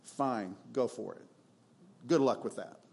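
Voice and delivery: a mild, weary "good luck"; resigned shrug. Retold or imitated. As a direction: let them go with a weary sigh. God's resigned reply, quieter.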